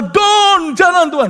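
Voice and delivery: high loud panicked begging; frantic plea. Retold or imitated. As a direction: cry out no to God. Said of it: "Langsung pertama".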